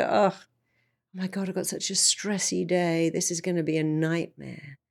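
a touch of mock dread; stressed groan. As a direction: sigh it like a dreaded day. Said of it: "I could go".

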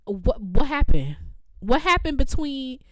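baffled. Real, not acted. Baffled mock questioning of accents.

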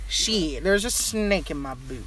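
Texan cowboy aside; playful Texan cowboy voice; mock cowboy. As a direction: drop into a lightly put-on cowboy twang. Cowboy bit goes on.

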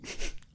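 short soft giggle; quiet amused snicker; real laugh. Real, not acted. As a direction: giggle briefly mid-sentence. Laughs while reading.

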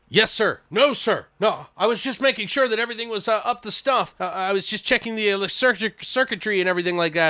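high-pitched, stammering excuses to a superior; mock-nervous soldier covering himself; nervous underling. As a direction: act like you've been caught, voice up high. Plays caller answering superiors, caught out.

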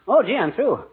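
ordinary talk

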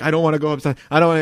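retold protest; pleading. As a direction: beg to get out of it. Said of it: "pleading with Jill".

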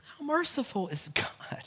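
whispered in awe. Real, not acted. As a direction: breathe the question, unvoiced. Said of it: "repeat whispered".

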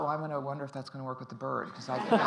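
laughing through words. Real, not acted. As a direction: keep laughing as you speak. Laughing while retelling.

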